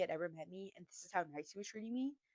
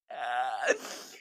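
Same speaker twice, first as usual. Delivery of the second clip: mock cry; 9 semitones lower, 4 dB louder than usual. Mock swoon after coffee question.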